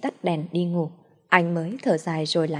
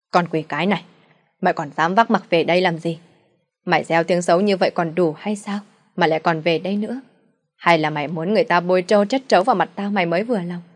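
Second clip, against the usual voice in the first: angry father; 3 dB louder, faster than usual. Acted. Drunk father berates daughter.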